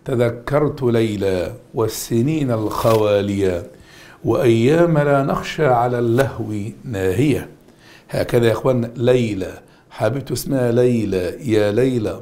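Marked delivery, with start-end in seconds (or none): 0.0-7.5 poem recital. Shown as a demonstration. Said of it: "قال الشاعر".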